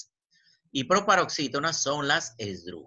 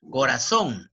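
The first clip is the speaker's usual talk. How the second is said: "Corazón" with a firm stress on "zón"; acento en última sílaba; 4 dB louder, slower than usual. Shown as a demonstration. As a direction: punch the final "zón" in "Corazón". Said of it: "en son". ("Corazón" marcando con fuerza "zón")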